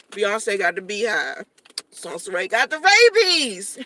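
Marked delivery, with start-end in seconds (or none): 1.9-3.9 slow, loud, breaking into a high laugh. Real, not acted. Vlogger laughing at her own fan nickname. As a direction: laugh through the brag.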